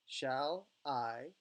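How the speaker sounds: "Shall I" as two separated syllables, the second lifted; "Shall", then "I" with rising inflection; broken into beats. Shown as a demonstration. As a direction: split "Shall I" and rise on "I". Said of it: "you're gonna break that down".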